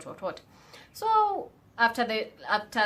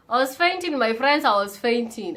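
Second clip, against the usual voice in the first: dramatic exclamation; 2 semitones higher, 7 dB louder than usual. Real, not acted. Dramatic reaction to positive test.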